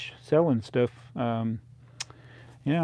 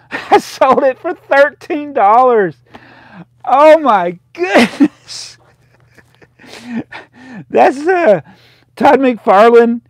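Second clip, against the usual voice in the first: laughing in dismay; 11 semitones higher, 12 dB louder than usual. Real, not acted. Recalls selling rare comics for cheap.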